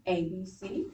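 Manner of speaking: letters read evenly, ending low on C; plain statement tune. Shown as a demonstration. Teacher models intonation for the class, even statement reading. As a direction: read A, B, C like a sentence with a period. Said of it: "watch me as I model".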